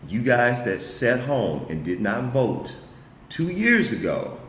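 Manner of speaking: slow down and scold them in real frustration; mad. Real, not acted. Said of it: "I'm just mad right now".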